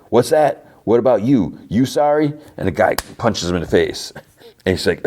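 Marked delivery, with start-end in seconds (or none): 0.1-2.3 a taunt pitched higher, mockingly retold. Frank taunting the cop who just punched him, mockingly. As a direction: needle him with a sneering question.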